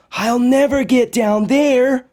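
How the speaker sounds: put-on high, small voice of a worried girl; Josephine despairing. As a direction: sound defeated at the foot of a mountain. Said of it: "she said".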